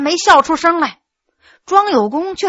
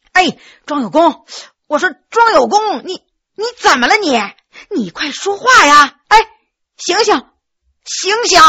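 higher, anxious calls to wake him; urgent pleading; 4 semitones higher than usual. Acted. Le Min shaking the stunned scholar, anxiously calling. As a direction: shake him and beg him to answer. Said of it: "急忙上前晃晃庄有功".

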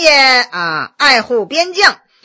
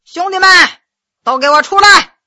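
yelling across the room; 5 semitones higher, 5 dB louder than usual. A narrator's reading. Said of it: "冲着东厢一排房子喊道".

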